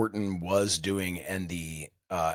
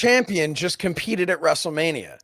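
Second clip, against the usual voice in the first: louder, higher hype with building excitement; excited; 8 semitones higher, 6 dB louder than usual. Real, not acted. Co-host hyping the champion's WrestleMania moment, excited and louder. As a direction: sell it like a headline you can't believe.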